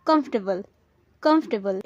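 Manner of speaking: "कंफर्टेबल" as short KUMF-tuh-bul, falling; correct pronunciation. Shown as a demonstration. Teacher modelling the right form for learners, "कंफर्टेबल" as KUMF-tuh-bul. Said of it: "लेकिन इसका सही उच्चारण है".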